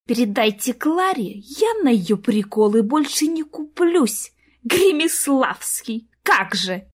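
slow, breathless angry hiss. A narrator's reading. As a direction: spit the words out slowly in anger. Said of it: "просвистела в трубку".

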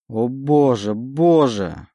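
a touch of tears; tearful. Acted. Oleg repeats his plea, tears welling. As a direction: plead on the edge of tears. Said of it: "На глазах его заблестели слёзы".

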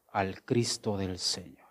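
a hushed breathy whisper; whispered reverently. Real, not acted. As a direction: drop to a whisper. Trails off into hush.

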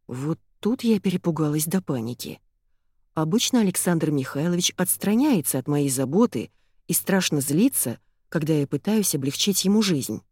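usual speaking voice

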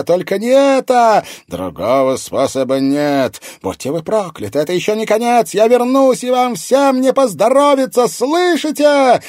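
very high, loud hysterical shrieking curses; frantic screaming. A narrator's reading. Captive woman screaming curses at her captors. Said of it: "женщина истошно завизжала".

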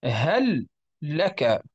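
"هل لك" with one long doubled lam, hallak; very slow model reading. Shown as a demonstration. Teacher slowly modelling the merged reading of "هل لك". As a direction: stretch out "هل لك" with the lams merged. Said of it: "نقول".

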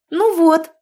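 bursting out high and loud with joy; joyful exclaim. A narrator's reading. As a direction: cry it out delighted. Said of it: "радостно воскликнула".

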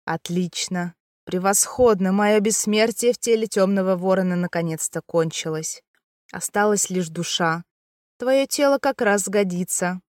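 sinister gloating demon, lightly voiced; ominous demon voice. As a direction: gloat like an ancient evil spirit. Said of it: "раздался зловещий голос".

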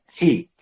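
حي said with a clear kasra, ḥi; حي, a short front i after the ha. Shown as a demonstration. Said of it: "طبعًا بكسر ال-، الحاء". (الحاء مكسورة)

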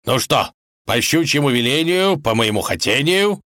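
mildly eager tsar; expectant, lightly animated incantation; enthusiastic. A narrator's reading. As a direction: start a spell with a touch of gusto. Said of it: "сказал щуке с воодушевлением".

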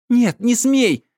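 loud, high forbidding cry; wife blocking door, shouting him down. A narrator's reading.

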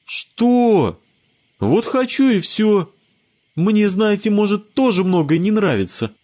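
put-on high boy's voice, stubborn; a kid sticking to his choice, high; defiant child. A narrator's reading. Sebastian defends his dream to friends, high defiant child voice.

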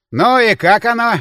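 curious character line; Demin's voice. Acted. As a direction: voice the bartender asking eagerly. Narrator voices Demin asking.

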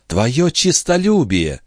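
put-on slow entranced young woman; young wife. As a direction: answer in a trance. Lorenza answers, slow.

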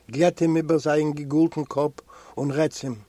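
usual speaking voice

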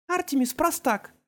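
plain reading voice

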